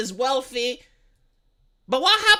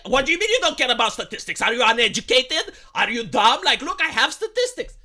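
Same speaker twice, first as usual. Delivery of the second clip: mock indignant; 3 dB louder than usual. Mocking indignant statistic-lover.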